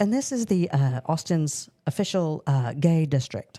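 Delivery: put-on British accent, tour-guide style. Retelling what a woman leading a crowd said: imitating a british accent. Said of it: "in a British accent of all things".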